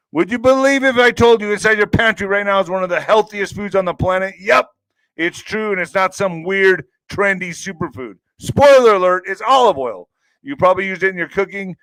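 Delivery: energetic sponsor pitch; upbeat ad read. Acted. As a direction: sell it like a radio ad.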